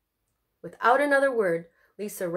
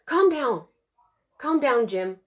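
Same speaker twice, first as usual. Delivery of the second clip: urgent; 3 semitones higher, 4 dB louder than usual. Acted. Mom urging caller on phone.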